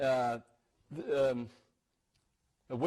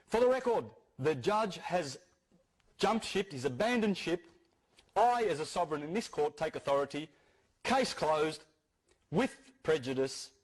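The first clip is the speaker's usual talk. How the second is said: imitating a formal declaration, pitched up at first; courtroom announcement; 2 semitones higher than usual. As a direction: proclaim it deliberately, as if for the court record. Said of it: "he immediately announced".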